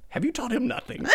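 high, soft mocking sneer then laugh; mocking Inquisitor. Imitating the Inquisitor taunting Kanan. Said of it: "and he goes".

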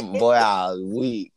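slow, drawn out through laughter; laughing. Real, not acted. Friend recalling a funny Twitter moment, laughing. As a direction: stretch the words out as you laugh.

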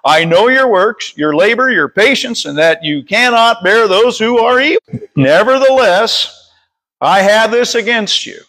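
measured read-aloud Bible verse; scripture reading. Real, not acted. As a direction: read it out deliberately to a congregation. Reads scripture aloud to congregation.

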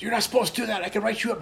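high, whiny voice of a petty rule-keeper; mocking officious guy. Transit guard scolding him for skipping the bunker, high mocking whine. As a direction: mimic the nagging guard.

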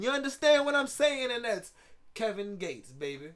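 a light take on a rapper, cocky and rambling; rapper impression. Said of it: "How was my rapper impression".

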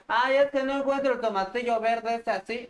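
high, whiny mock housewife complaining; put-on high nagging lady; Doña Lucha voice. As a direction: whine it like a fussy auntie who can't find her tomatillos. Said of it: "Ya salió Doña Lucha por acá".

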